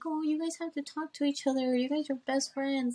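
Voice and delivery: a hint of friends nagging them to make up; mock matchmaking friends. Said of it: "they're like".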